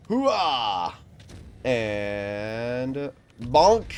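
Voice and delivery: hammed-up battle cry; loud gung-ho soldier. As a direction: bellow it like a charging soldier. Rams enemy with rocket boost.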